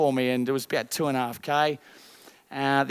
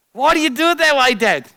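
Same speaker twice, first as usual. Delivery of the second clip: put-on high, loud child's question to dad; dramatised daughter; 8 semitones higher, 7 dB louder than usual. Daughter questioning her father, high and loud. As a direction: play the daughter, pitched up and pressing. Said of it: "Now, I'm dramatising".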